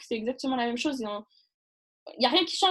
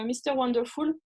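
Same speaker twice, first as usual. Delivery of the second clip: tentative d'English accent with a French lilt; accent anglais. Real, not acted. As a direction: say it in a French speaker's English accent. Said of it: "vous avez vu mon accent anglais". (accent anglais approximatif)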